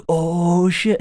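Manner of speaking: high, squeaky oh shit; startled. Retold or imitated. Rival iguana caught off guard, high startled yelp. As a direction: yelp in alarm. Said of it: "And the other guy's like".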